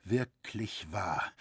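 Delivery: as if the truth just hit him; shaken stammer. A narrator's reading. Roritzer realising he is betrayed, shaken stammer. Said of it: "stammelte Roritzer erschüttert".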